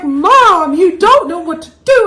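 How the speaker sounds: put-on high, loud kids teasing mom; mocking kids. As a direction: tease her like a know-it-all kid. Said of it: "the kids are just like".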